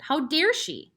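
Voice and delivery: jealous outrage. A narrator's reading. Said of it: "he seemed to be saying".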